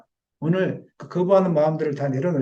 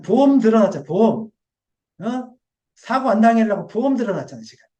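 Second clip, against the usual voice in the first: raised, pressing scolding; scolding rebuke; 3 semitones higher, 3 dB louder than usual. Retold or imitated. Pastor imagining scolding a member over false faith, heated. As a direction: scold the believer, pushing each point. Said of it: "입이 이만큼 나올 때가 많아요".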